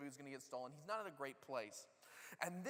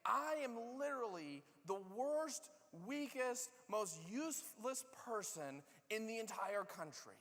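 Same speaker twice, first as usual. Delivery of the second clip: higher, slow, emphatic self-pity; mock-dramatic lament about being the worst; self-pitying Gideon; 5 semitones higher, slower than usual. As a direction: lay his despair on thick, slowly. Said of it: "So he's basically saying".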